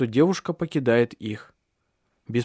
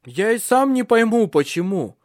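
higher, louder; shouted reply; 9 semitones higher, 6 dB louder than usual. A narrator's reading. Son shouting back to his mother over the screams. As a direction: call back over the noise. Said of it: "выкрикнул он в ответ".

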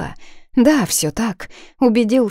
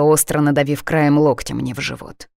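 ordinary delivery, nothing marked

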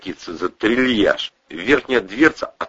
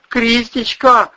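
high, slow sobbing cry of her name; sobbed; 7 dB louder, slower than usual. Acted. Husband sobbing over fallen wife, high slow cry. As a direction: call her name through sobs. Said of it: "схлипнул Вась-Вась".

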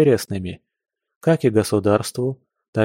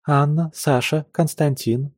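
cartoon princess; 4 semitones higher than usual. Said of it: "мелодично прощебетала Дол".

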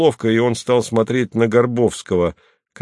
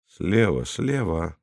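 gloomy prompt; 2 semitones lower, 6 dB quieter, slower than usual. A narrator's reading. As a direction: gloomily point him to the left. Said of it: "мрачно подсказал Сименон".

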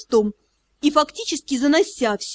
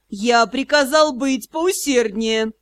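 mocking; slower than usual. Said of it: "издевательский голос кронпринца".

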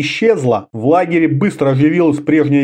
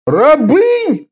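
high, louder indignant cry; indignant shout; 13 semitones higher, 3 dB louder than usual. A narrator's reading. Orda crying out in indignation at the news. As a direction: shout it in outrage. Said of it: "возмущённо скричал".

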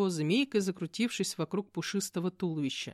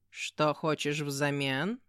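slow demon cat; 3 semitones lower, much slower than usual. Acted.

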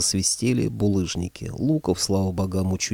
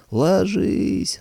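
shouted warning; 11 semitones higher than usual. Acted. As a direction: scream the warning. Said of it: "заорал Михалыч".

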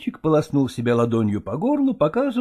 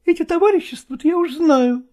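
high, loud, dismissive cry; exclaiming; 5 dB louder than usual. A narrator's reading. Actress Malkova scoffing at Chechentsev's cooperative, high exclamation. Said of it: "воскликнула Малкова".

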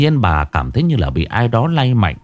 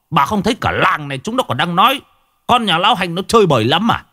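scornful husband, rising higher as he goes; angry challenge; 3 semitones higher than usual. Acted. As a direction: demand proof in a heated tirade. Husband angrily argues with wife. (chất vấn vợ gay gắt)

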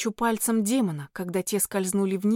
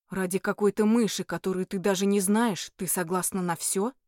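surprised demon; 2 semitones lower than usual. Acted. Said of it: "удивлённо проговорил демон".

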